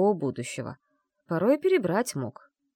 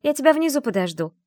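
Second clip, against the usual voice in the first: a touch of a mother's call, higher and louder; 8 semitones higher, 6 dB louder than usual. A narrator's reading. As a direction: call down from the other room. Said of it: "крикнула мама из комнаты". (мама кричит дочери, что подождёт внизу)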